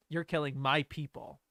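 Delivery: weight on "my", falling ending; stress on my. Shown as a demonstration. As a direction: claim the people with a firm "my". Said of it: "So much stronger".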